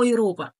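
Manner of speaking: "أيروبا" with a tongue-tip R; tapped R pronunciation. Shown as a demonstration. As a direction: say "أيروبا" with R as in Arabic ra. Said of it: "كغين وكآ".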